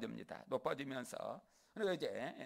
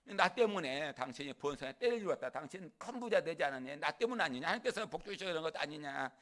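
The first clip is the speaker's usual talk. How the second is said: raised, challenging retort; Jacob, emboldened; 3 semitones higher, 4 dB louder than usual. Acted. Jacob talking back to a weakened Laban, emboldened. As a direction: press the questions home with confidence. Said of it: "당당해져가지고".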